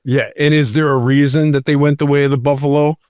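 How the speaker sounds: tinny, thin, no bass; like talking in a tin can; tin can sound. Real, not acted. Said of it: "It sounds like you're in a tin can".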